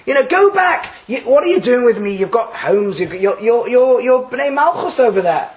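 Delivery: a hint of Naomi sending her daughters-in-law back; Naomi pleading. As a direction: urge them home as Naomi. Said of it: "Naomi has actually turned around and said".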